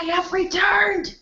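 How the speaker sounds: slow, high proclamation; hammed-up heroic return; grand announcement.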